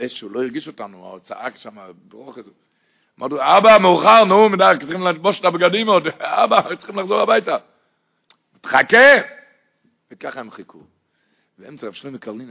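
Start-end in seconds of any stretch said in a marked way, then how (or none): 3.4-7.6 high, louder urging voice; children pleading. Retold or imitated. Kids urging father to go home, high pleading. 8.6-9.2 high, loud single word snapped back; loud retort. Retold or imitated. Father telling his kids to wait, loud.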